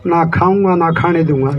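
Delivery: lightly imitated leader, pitched well down; Narendra Modi. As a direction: quote the slogan in a dropped, mocking voice. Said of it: "और मोदी जी क्या कहते हैं".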